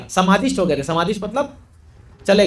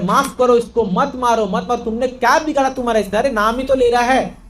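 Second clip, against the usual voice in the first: pleading in a higher pitch; 4 semitones higher than usual. Retold or imitated. Villagers begging the executioners to spare him, pleading. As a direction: beg for mercy on his behalf. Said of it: "सब हाथ जोड़ रहे".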